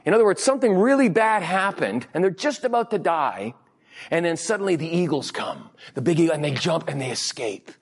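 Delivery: normal talking voice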